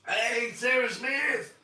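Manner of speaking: slow, loud greeting with "Sarah" stretched out; loud shout out. Real, not acted. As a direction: call "Hey, Sarah Smith!" like across a room. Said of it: "Can you give my mum a shout out".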